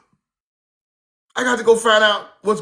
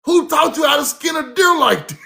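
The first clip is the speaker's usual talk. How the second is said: laughing disbelief; 6 semitones higher than usual. Retold or imitated. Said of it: "You like".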